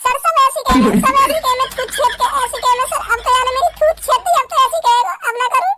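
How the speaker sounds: fake crying. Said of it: "ढंग के रोले, आंसू तो निकाल ले एक".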